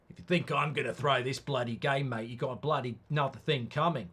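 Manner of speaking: put-on a loose, half-hearted Australian accent; rubbish Australian accent. The Spurs manager warning fans he won't throw the game, in a rubbish Australian accent. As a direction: put on a bad Aussie twang as the Spurs boss. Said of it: "Rubbish Australian accent".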